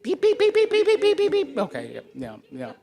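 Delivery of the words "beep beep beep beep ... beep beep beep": high, loud run of peeps; chick peeping. Pretend. Storyteller gets everybody to peep, high chick peeping. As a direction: peep excitedly like a brood of chicks. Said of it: "everybody peep".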